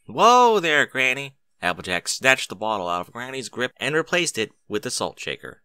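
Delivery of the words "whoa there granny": alarmed. Acted. Applejack stopping Granny.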